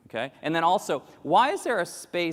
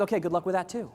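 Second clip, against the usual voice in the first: higher, dismissive cheer; mock breezy brush-off; 5 semitones higher, faster than usual. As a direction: shrug it off. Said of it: "the U S American's like".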